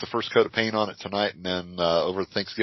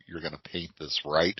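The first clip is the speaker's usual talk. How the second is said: low, soft, knowing question; friend asking; 4 semitones lower, 6 dB quieter than usual. Retold or imitated. Store owner quietly asks the painter, low and soft. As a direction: lower and softer, a quiet sly check. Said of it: "and he goes".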